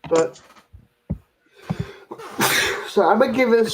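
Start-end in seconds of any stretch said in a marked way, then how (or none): 1.7-2.8 one quick real sneeze. Real, not acted. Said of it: "Sorry about my sneeze there".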